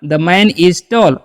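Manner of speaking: each word of The man is tall said very slowly and clearly; slow model sentence. Shown as a demonstration. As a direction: spell it out slowly for learners. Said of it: "तो कैसे बोलिएगा". (धीमे और साफ़ उच्चारण में वाक्य)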